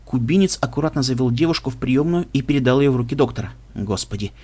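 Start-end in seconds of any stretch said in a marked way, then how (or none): 3.8-4.3 low, soft, stunned exclamation; lost, stunned. A narrator's reading. Doctor on seeing the wound, lost and hushed. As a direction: let it out softly, at a loss. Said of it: "потерянно протянул тот".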